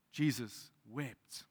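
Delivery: very slow, weighty pause between words; Jesus wept, drawn out solemnly; slow solemn reading. Acted. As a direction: let each word sink in. Shortest verse, read solemnly.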